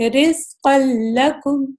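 simple, slow "رزق لکم", the ل said clean with no nasal hum; without ghunna. Shown as a demonstration. Teacher shows students the simple reading of "رزق لکم", ل without nasal hum. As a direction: read "رزق لکم" slowly, tanween merged straight into ل, nothing from the nose. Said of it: "اس کو کیسے پڑھتے ہیں؟".

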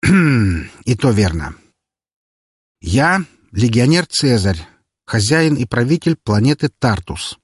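slow, awkwardly friendly; forced friendliness. Acted. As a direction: try to sound friendly and fail. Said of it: "Попытка добавить в голос побольше дружелюбия закончилась полным провалом".

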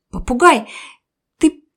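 contemptuous. Acted. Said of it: "с презрением сказала птичка".

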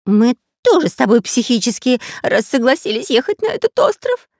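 high, loud whiny robber voice; whining robber. Acted. Robber whining to the pirate about the island. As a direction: whine it like a sulking child. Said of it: "сразу же стал ныть Дырка".

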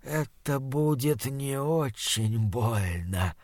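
slow, soft gurgling creature voice; gurgling monster. Acted. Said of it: "пробулькало оно".

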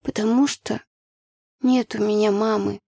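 put-on child's mildly cross answer. A narrator's reading. Child tells teacher she has no mum, cross. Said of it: "сердито ответила я".

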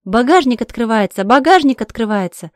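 loud repeated warning yell; frantic warning to the driver; alarmed shout. Acted. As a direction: shout to Sasha that the trunk is opening. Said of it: "Я кричу".

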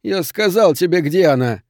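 forced out. A narrator's reading. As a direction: squeeze the words out under duress. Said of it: "выдавил он". (выдавливая слова)

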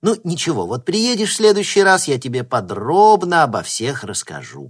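a hint of an old granny promising; grandmother. A narrator's reading. Grandma promising her grandson a story, lightly voiced. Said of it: "пообещала бабушка".

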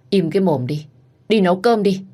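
high, loud scolding; angry rebuke. Acted. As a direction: snap at her to shut up. Father scolds elder daughter. (bố quát con gái lớn giận dữ)

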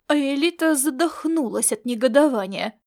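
ordinary talk, nothing marked

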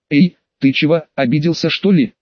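plain reading voice

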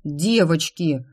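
drawn-out hurt cry to the daughters; offended wail. Acted. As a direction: wail it, left with the bags. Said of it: "обиженно возопил батюшка".

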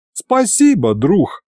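high, sighing thanks, falling away; bitter sigh. A narrator's reading. Narrator thanks friend offering a sabre, bitter sighing tone. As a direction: thank him with mild bitterness. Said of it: "горько вздохнул я".

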